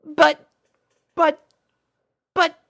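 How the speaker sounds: high, flustered repeated buts; stammering. Acted. Twilight tries to object to Rainbow, flustered and stammering. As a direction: trip over your words in protest. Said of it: "Twilight began".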